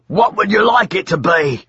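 high sly demon voice. Acted. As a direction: tease like a demon. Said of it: "said the demon".

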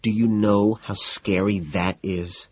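slow plea in an altered voice; imploring, frightened. A narrator's reading. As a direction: draw it out as if scared. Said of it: "looking appropriately frightened".

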